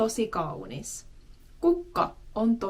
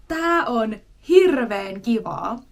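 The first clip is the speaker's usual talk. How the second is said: "hirveän" lifted in a light excited call; a card player's happy outburst, understated; mild mock exclamation; 7 dB louder than usual. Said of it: "they shout out".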